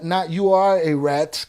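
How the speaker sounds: slow, spaced-out words with ARE leaned on; pointed correction landing on ARE; stress on ARE. Shown as a demonstration. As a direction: stretch and stress the word ARE to correct someone. Contrasts his words with accusation.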